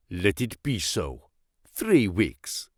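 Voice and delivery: low, soft prisoner voice; defiant captive. A narrator's reading. Captive answering the interpreter's secret question, low and steadfast. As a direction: drop low and quiet, resigned but unyielding.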